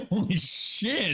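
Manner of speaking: laughing. Real, not acted. Reacting to the absurd toe story.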